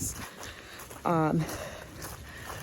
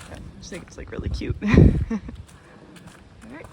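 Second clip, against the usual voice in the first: laughing; 4 semitones higher, 3 dB louder than usual. Real, not acted. Laughs about cute deer.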